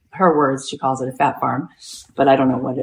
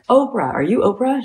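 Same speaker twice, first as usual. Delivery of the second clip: high-pitched imitated call; urgent calling; 7 semitones higher than usual. Woman runs to track with a phone call, high urgent call. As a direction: act out hailing someone urgently.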